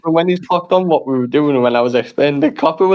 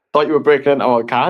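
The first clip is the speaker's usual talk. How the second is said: blurted out; 5 semitones lower, faster than usual. Retold or imitated. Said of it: "I went".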